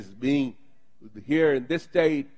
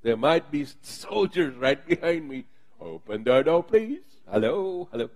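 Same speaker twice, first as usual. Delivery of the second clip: a hint of a desperate Peter at the door; Peter knocking urgently. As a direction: plead to be let in, hammed-up. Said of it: "Peter is knocking".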